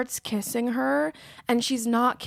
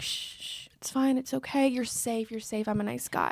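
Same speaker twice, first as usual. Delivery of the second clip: soft hushing, falsely reassuring; creepy soothing hush; 6 dB quieter than usual. Retold or imitated. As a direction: shush her gently, like a predator. Man hushing drunk woman, creepy.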